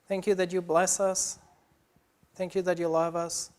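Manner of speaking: earnest, steady prayer voice; a gently lifted prayer of thanks; closing prayer. Acted. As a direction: thank God sincerely for the congregation.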